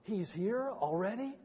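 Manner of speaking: slowing into an uneasy question; mild mock dismay, drawn out; dismayed dread. Preacher voicing humanity unready for Judgment, dismayed. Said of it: "another part of humanity going".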